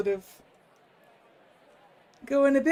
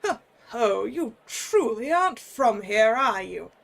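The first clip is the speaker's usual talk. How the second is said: put-on jolly old man.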